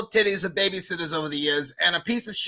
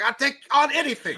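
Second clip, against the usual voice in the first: mock tough guy; 10 semitones higher than usual. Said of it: "You're like".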